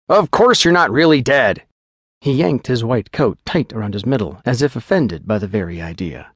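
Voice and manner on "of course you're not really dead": quick, businesslike physician giving orders; a doctor rattling off the plan, a bit louder; lightly voiced clinical doctor; brisk doctor.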